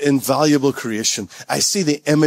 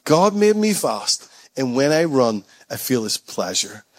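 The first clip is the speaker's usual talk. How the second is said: slow, settling quote; 3 semitones lower, slower than usual. Acted. Repeats motto, settling down.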